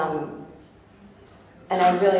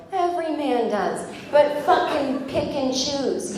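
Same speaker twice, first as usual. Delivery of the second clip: exasperated retort; 7 semitones higher, slower than usual. Retold or imitated. Retorting to the woman worker.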